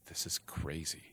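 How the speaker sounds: whispered 'This is crazy', barely audible; nervous whisper. Retold or imitated. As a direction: breathe it out, losing nerve. She hesitates at her door.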